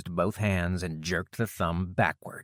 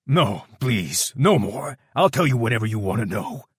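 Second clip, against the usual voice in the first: louder, pleading, near tears; blubbering plea; 3 semitones higher, 7 dB louder than usual. A narrator's reading. Brute blubbering for mercy to Kenny and his mother, tearful. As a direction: beg for mercy, breaking. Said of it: "as he blubbered for mercy".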